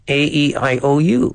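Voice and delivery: constricted Muppet-like voice; strangled voice. Shown as a demonstration. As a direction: squeeze the vowels out, throat tight. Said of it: "Kind of in a constricted voice like this".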